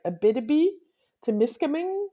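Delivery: Abitibi-Témiscamingue with flat English vowels; English accent. Shown as a demonstration. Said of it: "with an English accent".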